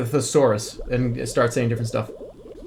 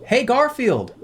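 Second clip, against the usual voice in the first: sing-song call; 8 semitones higher, slower than usual. Real, not acted. Calling the creature by name.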